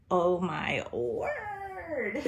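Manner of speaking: slow word dissolving into a laugh; delighted laugh. Real, not acted. Laughing delight over doll.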